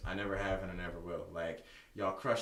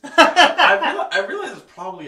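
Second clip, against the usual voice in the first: high, loud laughter through the words; can't stop laughing at the name; 12 semitones higher, 16 dB louder than usual. Real, not acted. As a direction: talk through a big laugh.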